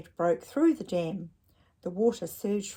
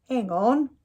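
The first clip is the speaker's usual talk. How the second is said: louder, higher call; 5 semitones higher, 10 dB louder than usual. Acted. Dad calls to Ned before diving into a shop. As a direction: call out to stop him. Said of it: "he said".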